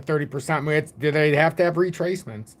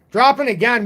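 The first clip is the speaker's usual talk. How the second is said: emphatic correction; 6 semitones higher, 4 dB louder than usual. Real, not acted. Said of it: "No, no, no".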